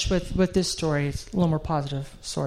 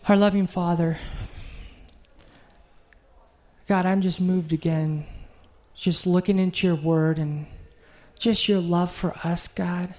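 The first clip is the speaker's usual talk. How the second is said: heartfelt prayer. Acted. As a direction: pray it from the heart, letting it breathe. Leads the closing prayer.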